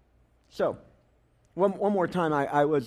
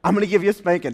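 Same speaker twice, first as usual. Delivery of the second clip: louder stern dad warning; louder dad threat; 6 dB louder, faster than usual. Retold or imitated. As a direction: retell the threat with more force. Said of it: "So he says".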